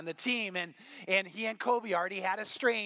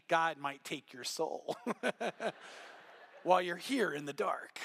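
laughing through it; 4 semitones lower, 4 dB quieter than usual. Real, not acted. Jokes about the scary prayer.

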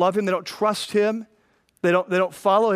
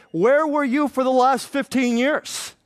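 slow, higher incredulous demand; exasperated rebuke; 6 semitones higher than usual. Retold or imitated. Lady Wisdom scolding the late seeker, slow incredulous. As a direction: drag it out, incredulous. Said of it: "And Lady Wisdom is saying".

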